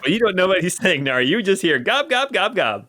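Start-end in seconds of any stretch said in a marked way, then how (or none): 1.8-2.9 high goblin babble; gobloid gibberish. Acted. Showing Nari what the gobloid sounds like, jabbering.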